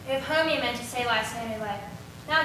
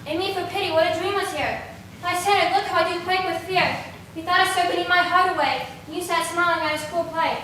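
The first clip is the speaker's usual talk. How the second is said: loud, high, panicked pleading; frightened cry; 5 semitones higher, 6 dB louder than usual. Acted. Hermia waking from a serpent dream, calling Lysander, terrified. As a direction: cry out for help from a nightmare.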